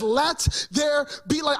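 slow, ringing proclamation; proclaiming. Acted. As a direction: declare it like God speaking. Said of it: "and he says".

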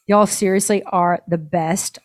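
slow down and land firmly on "best"; stress on best. Retold or imitated. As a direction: read "best" as if in all caps. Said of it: "all caps".

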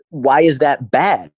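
loud, drawn-out challenge; exasperated retort. Retold or imitated. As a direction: push back slowly and loudly, exasperated. Acted exasperated reply to clients.

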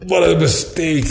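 retelling his own shock, laughing and slow; laughing dismay. Retold or imitated. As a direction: chuckle out the realization of a blunder. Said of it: "and I was like".

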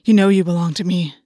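low, loud and fierce. A narrator's reading. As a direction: growl it with possessive force. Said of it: "voice turning fierce".

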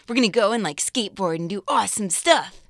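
lightly voiced skater kid; a hint of an excited teen boy; casual dude voice; teenage boy voice. Shown as a demonstration. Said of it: "This is, like, my teenage boy voice".

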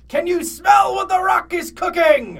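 loud, high, drawn-out mock shout; catchphrase bellow. Reader shows off the catchphrase to his friend, hammed-up bellow. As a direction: belt it out like a showman's catchphrase.

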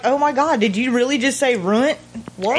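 incredulous, laughing at family; mock disbelief. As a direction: react like hearing a silly word. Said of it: "I laugh at my family".

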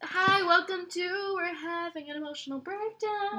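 real tears. Real, not acted. Host welcoming listeners after a moving reading, tearful. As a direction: joke through real tears. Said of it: "there are real tears".

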